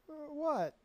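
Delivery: high-pitched, puzzled "what?"; retold bafflement. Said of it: "and I'm like".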